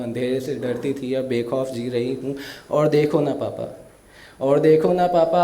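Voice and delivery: emotional recital of a daughter's farewell poem. Acted. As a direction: recite it with feeling, like a stage poet. (भावुक कविता पाठ)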